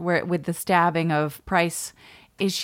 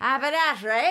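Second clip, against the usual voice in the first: higher put-on Cockney with no H at the start of Haberdashery; Cockney, H dropped; 7 semitones higher than usual. Co-host trying again after coaching, H-less Cockney. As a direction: say it in mock Cockney, starting on the vowel. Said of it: "Drop the H".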